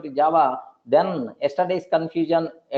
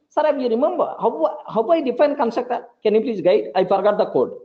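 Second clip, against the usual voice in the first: pitched-up student, a touch of laughter; a forgetful student asking for help; mock student; 5 semitones higher than usual. A student asks sir for help with the code.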